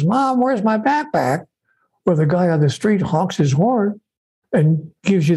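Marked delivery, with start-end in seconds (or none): 0.0-1.5 high, drawn-out mock call to Mom; imitated son. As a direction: imitate a kid whining for help. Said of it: "your son knocks on the door and says".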